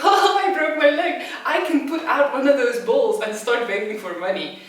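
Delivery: loud, high laughing quote; a man with a broken leg laughing at himself in shock. Retold or imitated. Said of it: "started to laugh at myself".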